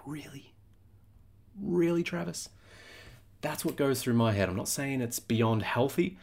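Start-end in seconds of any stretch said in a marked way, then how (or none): 0.1-0.5 whispered disbelief at himself; hushed, almost silent Really; incredulous whisper. Retold or imitated. Scolding himself in a whisper, incredulous. His own voice scolding self. 1.6-2.5 higher, disbelieving Really, Travis; incredulous self-scolding. Retold or imitated. He calls himself out, higher and incredulous.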